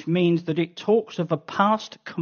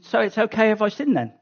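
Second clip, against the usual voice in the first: quick, offhand voice of a careless believer; careless sinner. Retold or imitated. Preacher voicing the careless believer's question, quick and offhand. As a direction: shrug it off like nothing matters. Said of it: "that leads to the logical question".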